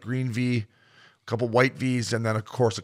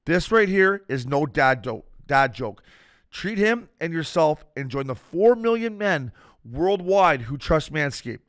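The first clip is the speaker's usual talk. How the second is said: upbeat sponsor pitch, slower in spots; ad read; 4 semitones higher, slower than usual. Acted. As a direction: sell it like a podcast ad.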